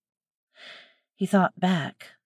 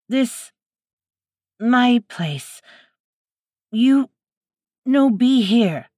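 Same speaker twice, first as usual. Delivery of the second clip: higher and louder, halting threat; broken-English wild woman; 6 semitones higher, 5 dB louder, slower than usual. A narrator's reading. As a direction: chop the words like a hostile stranger. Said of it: "struggling with the words".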